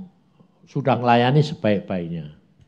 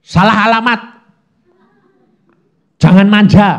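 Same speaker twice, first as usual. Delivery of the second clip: stern scolding, louder; mock scolding; 8 semitones higher, 10 dB louder than usual. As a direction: tell her off sternly. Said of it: "saya marahinya pertama gini".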